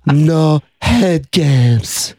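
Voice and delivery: very slow halting voice; Elephant Boy impression. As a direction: drag each word out like Elephant Boy. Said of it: "Let me hear your Elephant Boy".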